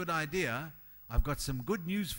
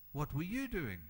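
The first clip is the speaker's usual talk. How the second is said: quiet question; 6 dB quieter than usual. Acted. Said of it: "repeated question, varied delivery".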